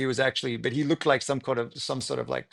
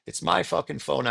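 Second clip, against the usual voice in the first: angry protest; 5 semitones higher than usual. Retold or imitated. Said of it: "I started to get really angry".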